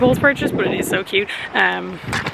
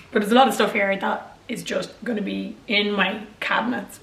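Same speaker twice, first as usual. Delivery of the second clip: hungover; 4 dB quieter than usual. Real, not acted. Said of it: "My voice is so bad".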